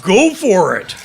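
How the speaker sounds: loud, high urging; eager go-ahead. Acted. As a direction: cry out a gung-ho invitation. Eagerly invites her to bite.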